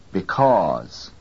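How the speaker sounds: weak be, strong cause in BECAUSE; stress on second syllable. Shown as a demonstration. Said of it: "second syllable is louder".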